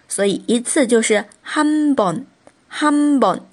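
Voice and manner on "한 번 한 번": 한 번 higher, syllables joined, n endings clear; blended word model. Shown as a demonstration. Teacher showing the finished word for once, 한 번 carefully pronounced. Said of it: "这样子去拼读".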